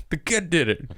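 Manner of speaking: hammed-up protest that the kid did it; mock protest from the wet neighbor, laughing; imitating the neighbor. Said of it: "It's just like".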